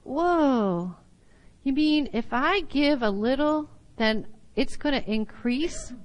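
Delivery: lightly acted wonder, rising to a question; mild amazement. Teacher voicing a listener discovering the promise, mildly amazed.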